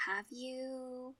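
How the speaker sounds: gentle. Acted. Sister gently echoes.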